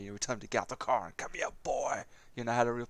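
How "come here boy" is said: lightly retold Southern accent on "Come here, boy". Retelling a film role to a friend, mild Southern accent. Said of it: "put on a real Southern accent".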